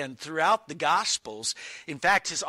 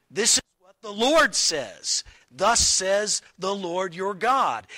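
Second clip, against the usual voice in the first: put-on louder, ringing declaration like an Old Testament prophet; prophet's proclamation; 2 semitones higher, 4 dB louder than usual. Preacher voicing the prophets to the congregation, declaiming. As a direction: proclaim it with weight.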